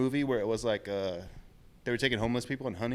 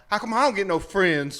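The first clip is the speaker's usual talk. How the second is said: sulky crocodile voice; 7 semitones higher, 9 dB louder, slower than usual. Pretend. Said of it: "He's all".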